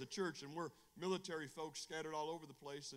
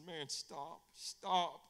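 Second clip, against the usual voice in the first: pleading retold cry; 5 dB louder, much slower than usual. Retelling his plea to the preacher.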